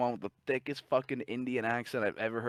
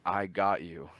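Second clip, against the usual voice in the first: "I got you" sounded out slowly; slow reading; slower than usual. Retold or imitated. Scammer reading the email as told, slow "I got you". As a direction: read "I got you" word by word. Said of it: "Read it really slow".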